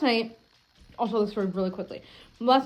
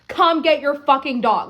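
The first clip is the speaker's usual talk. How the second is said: slow, pointed demand with a touch of anger; almost snapping at the careless owner; held-back anger; 4 semitones higher, 5 dB louder than usual. Retold or imitated. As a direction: spell it out slowly, barely holding back. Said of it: "I was so close to being like".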